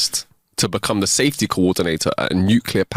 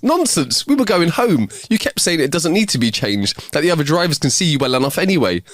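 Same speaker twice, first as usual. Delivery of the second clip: scolding wife; 4 semitones higher than usual. Acted. Wife contradicts her husband in front of the cop, scolding. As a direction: briskly shoot his excuse down, higher pitch.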